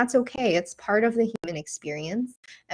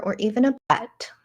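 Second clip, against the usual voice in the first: unhurried guiding voice with long pauses; guided meditation. Acted. Teacher guiding listeners into breath and a loving memory, guided meditation. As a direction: lead them gently through it, leaving room to breathe.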